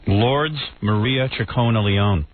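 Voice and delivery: slow, drawn-out announcement of a grand name; mock pretentious. Shown as a demonstration. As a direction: read it out slowly as if pretentious. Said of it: "talk about a pretentious name".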